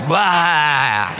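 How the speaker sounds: drawn-out "blah" of mock vomiting; imitated retching blah; mock vomiting noise. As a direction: spew out a long, hammed-up blah. Imitates spiritually vomiting on people.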